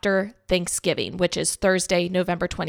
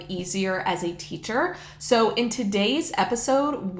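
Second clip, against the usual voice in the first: underwater. Real, not acted. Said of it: "kinda sounds like I'm underwater".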